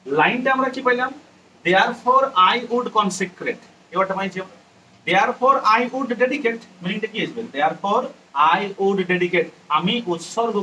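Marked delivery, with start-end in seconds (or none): 1.6-3.6 very slow, word by word; slow dictation. Shown as a demonstration. Teacher dictating the poem's line slowly to students. 5.1-6.6 very slow, each word drawn out; slow dictation. Shown as a demonstration. Teacher dictating the meaning slowly to students.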